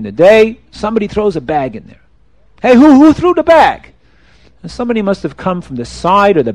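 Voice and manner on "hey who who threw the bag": high startled call through the bars; sudden startled cry; startled shout. Acted. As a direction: jump and call out who threw it. King startled by thrown bag.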